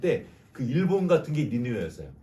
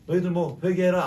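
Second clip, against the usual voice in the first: careless preaching; 4 semitones higher, 5 dB louder than usual. Retold or imitated. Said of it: "대충".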